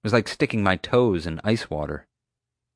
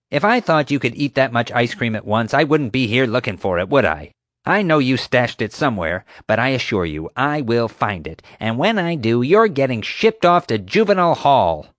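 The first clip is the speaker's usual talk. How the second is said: louder, higher bossy guard voice building to a threat; threatening Marge; 5 semitones higher, 4 dB louder than usual. Acted. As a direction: promise him juvenile hall with relish.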